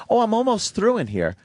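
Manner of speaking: high-pitched imitation of the maid; maid's voice. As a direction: play the maid high and light. Voices the maid in his story.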